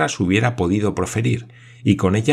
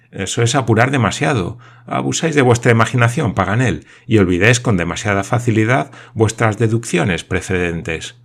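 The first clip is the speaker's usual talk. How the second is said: reproachful; 3 semitones higher, 5 dB louder than usual. Acted. Major rebukes Paganel.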